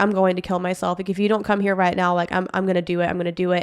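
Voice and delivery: put-on breathless voice, barely breathing. Retelling a boyfriend's threats over the phone: imitating someone barely breathing. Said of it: "he's barely breathing while he's talking to me".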